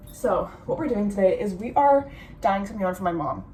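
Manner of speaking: ordinary delivery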